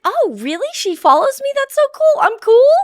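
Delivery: high-pitched, thrilled mock gushing; retold giddy excitement. Mom flattered that the host follows her, giddy high squeal. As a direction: re-enact being flattered and giddy, voice shooting up. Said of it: "I felt so cool".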